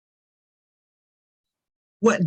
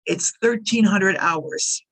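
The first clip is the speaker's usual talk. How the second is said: slow repeat; slower than usual. Shown as a demonstration. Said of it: "you get at one o'clock in the afternoon".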